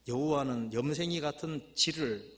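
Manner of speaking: slow Chungcheong verse reading; Chungcheong dialect. Acted. Preacher rereading the Chungcheong version, Chungcheong dialect. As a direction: read it with a drawn-out Chungcheong lilt. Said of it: "이 충청도 버전이랍니다".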